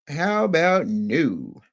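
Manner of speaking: very slow, stretched repeat; drawn out. Shown as a demonstration. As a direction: let each word hang, dragging it out.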